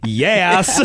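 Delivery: yes with attitude and a laugh; a cheeky, sassy yes. Shown as a demonstration. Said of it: "Not like".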